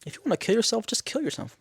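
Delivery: high-pitched mock dismissal; imitated blunt retort. Natalie answering Lisa's mom, mock dismissive. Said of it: "Natalie says the craziest shit".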